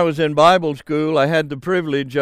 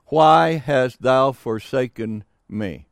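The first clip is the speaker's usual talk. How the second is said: solemn quoted cry; 4 semitones lower than usual. Acted. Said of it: "the phrase".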